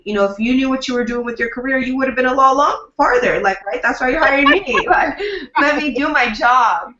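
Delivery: mildly exasperated, pitch lifted; exasperated telling-off. Acted. Publicist telling a micromanaging client to back off, exasperated. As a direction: put a distrustful client in their place.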